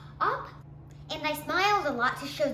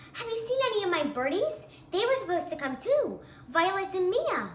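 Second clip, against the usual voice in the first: lightly raised sweet princess voice; fairy tale princess; 2 semitones higher than usual. Acted. Girl showing classmates her fairy tale princess. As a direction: play a gracious, cheery storybook princess. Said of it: "I spoke in a high voice".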